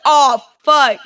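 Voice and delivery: alarmed curse. Retold or imitated. Hair caught in paddle wheel.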